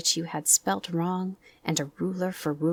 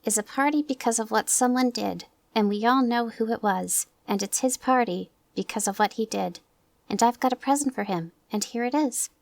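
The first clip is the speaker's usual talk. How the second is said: Christopher Robin's voice; 5 semitones higher than usual. Acted. Christopher Robin announces present.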